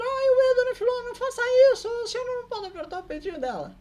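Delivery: high, fast, loud mock scolding; panicked mock telling-off; Seu Pedro scolding. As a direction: squeal it like a flustered old man. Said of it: "E o seu Pedro".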